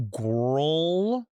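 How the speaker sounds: put-on "Girl" said as gorl, rounded vowel; stretched, rising "gorl"; "gorl" pronunciation. Shown as a demonstration. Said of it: "or G O R L".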